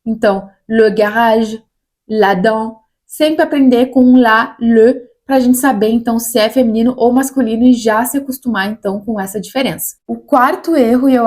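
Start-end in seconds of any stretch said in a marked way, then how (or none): 0.1-5.6 le garage and la dent said slowly, leaning on le and la; slow article drill. Shown as a demonstration. Teacher drilling nouns with their articles. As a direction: stress the article le before garage. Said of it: "aprender o substantivo com o artigo".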